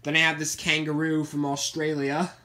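put-on light Australian accent on a toy intro; a hint of Australian, tossed in for fun. Showing off a kangaroo plush to viewers, in a light Australian accent. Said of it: "I just did the accent for some weird reason".

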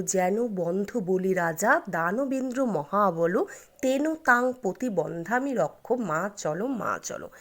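slow, measured Sanskrit verse; mantra recitation. Shown as a demonstration. Host teaching viewers the rakhi mantra, slow recitation. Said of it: "সেই মন্ত্রটি হলো".

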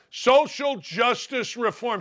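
high, slow put-on voice; mocking recital. Host parrots the campaign's demands, slow and mocking.

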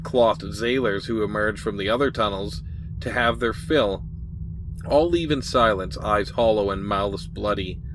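measured, dramatic game-text narration; storyteller reading aloud with deliberate emphasis; story narration. A narrator's reading. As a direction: read it like an adventure tale.

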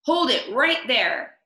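slow loud command of a policeman. Acted. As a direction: halt the burglars like a cop. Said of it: "said the policeman".

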